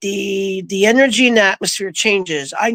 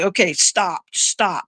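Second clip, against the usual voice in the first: hushed, telling herself to stop; softly calming herself down; quiet inner self-talk; 3 semitones lower, 5 dB quieter, slower than usual. Retold or imitated. Telling herself in her head to calm down, softly. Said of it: "all this in my head".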